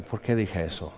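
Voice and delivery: soft, quiet self-doubting mutter to himself; a quiet, sheepish aside to yourself; embarrassed inner thought. Retold or imitated. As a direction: say it under your breath, caught off guard. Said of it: "Y ahí estoy".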